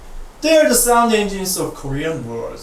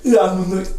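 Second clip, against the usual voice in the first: mock annoyed ooh. Shown as a demonstration. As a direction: groan it out like you're fed up. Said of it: "like you're annoyed".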